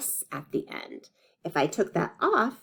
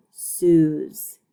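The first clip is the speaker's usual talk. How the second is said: hushed slow whisper; 3 semitones lower, 7 dB louder than usual. Shown as a demonstration. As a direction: whisper it slowly to the class. Teacher models word stretching.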